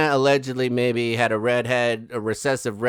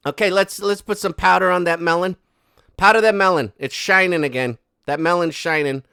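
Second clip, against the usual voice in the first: mock bossy photographer; 4 semitones higher, 4 dB louder than usual. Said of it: "He's like".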